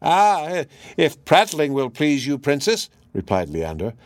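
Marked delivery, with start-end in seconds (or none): 0.0-2.9 high, loud squawky parrot. Acted. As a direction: squawk like an eager pet bird. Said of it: "still counterfeiting the parrot's voice".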